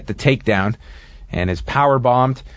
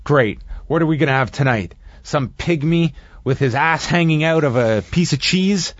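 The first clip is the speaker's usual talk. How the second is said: retold sarcastic complaint, lightly higher pitched; mock sarcasm; 4 semitones higher than usual. Wrestler griping to his tag partner about tonight's entrance, mildly sarcastic. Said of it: "Blackman sarcastically says".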